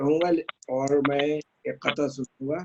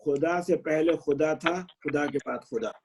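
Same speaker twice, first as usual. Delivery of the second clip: measured, drawn-out verse recital; poetry recitation. Acted. Poet reciting his qata to appreciative friends, measured recitation. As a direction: recite each half-line slowly, pausing between phrases.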